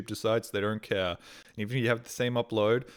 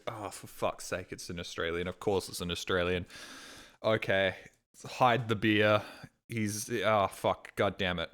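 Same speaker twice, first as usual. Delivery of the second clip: much softer, grumbled under breath; fed-up groan; 4 dB quieter than usual. Retold or imitated. Bali locals groaning when an Australian arrives, softly fed up. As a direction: mutter like a weary local.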